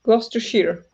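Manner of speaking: Gloucestershire said glos-ter-shear, falling and sure; corrected pronunciation. Shown as a demonstration. Streamer copying the English friend's correction, careful. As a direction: repeat Gloucestershire the way she just said it. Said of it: "Pronounce it like".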